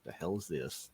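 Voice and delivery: a skeptical goblin muttering under the breath; mumbled aside. Acted. Gobby's silent look voiced.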